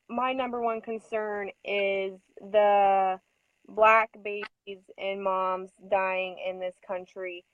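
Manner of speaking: slow, deliberate speech-giving voice; lightly voiced, slowed-down lecturing; preachy lecture. Retelling the midwife's speech, slow and preachy. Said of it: "she starts going in like".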